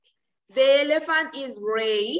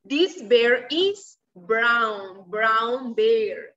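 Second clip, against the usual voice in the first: put-on reading to a toddler; 3 semitones lower, 3 dB louder, much slower than usual. Shown as a demonstration. Teacher slow modelling for child.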